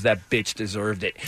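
low, slow and deadpan; dead serious. Retold or imitated. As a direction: say it flat and grim, no joke. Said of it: "Mike dead serious goes".

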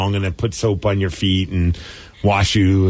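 low, lightly husky clean talk; mock seduction over clean words; sexy voice. Shown as a demonstration. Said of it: "say it in a sexy voice".

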